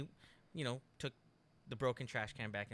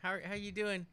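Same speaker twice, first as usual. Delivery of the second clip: higher, flustered fan voice stumbling over the words; nervous starstruck greeting; 8 semitones higher than usual. Retold or imitated. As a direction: squeak it out like a starstruck fan meeting her idol. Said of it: "I got really nervous".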